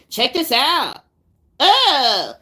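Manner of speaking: mocking a reaction youtuber disgusted; mock reactor voice. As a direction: overplay a reaction host. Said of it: "And be like".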